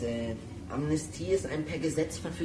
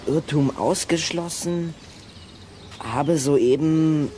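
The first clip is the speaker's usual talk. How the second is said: very slow, word by word, louder deciphering; halting reading; 5 dB louder, much slower than usual. Acted. Boy reads a rain-smudged note aloud, very slowly. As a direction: spell out the smudged note slowly as you make it out. Was steht hier?.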